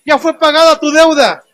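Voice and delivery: lightly voiced, assured declaration; the Lord declaring. Preacher voicing the Lord telling the believer the debt is paid, assured. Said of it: "va con nosotros y dice".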